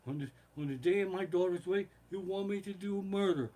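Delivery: a hint of the don reproaching; Godfather. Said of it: "He says".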